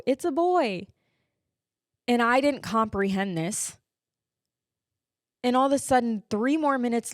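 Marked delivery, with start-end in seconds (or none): 0.1-0.9 higher-pitched announcement; imitated nurse announcing. Nurse at the back of the delivery room, imitated announcing call. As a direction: call it out with pitch raised, then falling. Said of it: "back nurse in the back of the room go".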